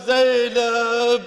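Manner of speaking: long, mournful call of a name; drawn-out call. Retold or imitated. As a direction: call out the name, stretching it slowly. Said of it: "he just says one time".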